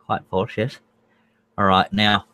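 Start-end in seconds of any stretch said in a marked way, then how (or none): 0.1-0.8 lightly put-on snooty British accent; posh British accent. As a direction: answer as a mock-posh Brit. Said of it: "that's posh".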